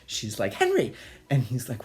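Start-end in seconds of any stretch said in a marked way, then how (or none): 0.5-0.9 high, loud summons; mock exasperated call. Mother calling father for backup, mock exasperated. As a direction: imitate a wife hollering for her husband.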